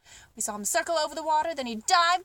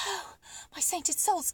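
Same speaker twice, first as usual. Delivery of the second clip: gasped; 3 semitones higher, 5 dB quieter than usual. Acted. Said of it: "gasped the giraffe".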